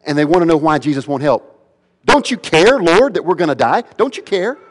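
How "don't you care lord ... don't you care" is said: high, desperate appeal; terrified plea. Acted. Terrified disciples ask why Jesus won't help, high frightened plea. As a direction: plead upward as if about to die. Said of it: "These disciples in the boat are terrified".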